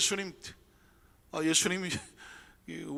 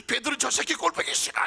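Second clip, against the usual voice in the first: mock angry Jesus; 8 semitones higher, 6 dB louder than usual. Hypothetical angry Jesus quote.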